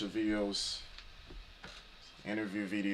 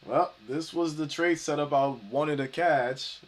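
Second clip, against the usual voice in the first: too much caffeine; 4 semitones higher, 5 dB louder than usual. Real, not acted. I'm twitching right now.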